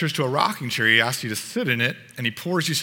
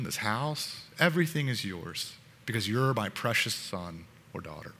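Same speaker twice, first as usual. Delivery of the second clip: gentle. Acted. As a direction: soften into a kind father's reassuring offer. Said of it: "his voice is really gentle".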